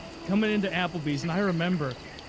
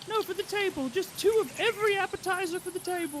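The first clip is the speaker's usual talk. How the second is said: much higher, breezy ordering voice; Kitty's order; 14 semitones higher than usual. Retold or imitated. Kitty ordering for the whole table, high and breezy. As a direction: toss it off high and casual like Kitty. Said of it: "It's like".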